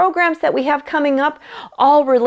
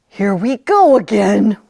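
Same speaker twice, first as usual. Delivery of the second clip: weary playful whisper; whispered aside; 3 semitones lower, 3 dB louder than usual. Real, not acted. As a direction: whisper it with a sigh of fun. Aside to children.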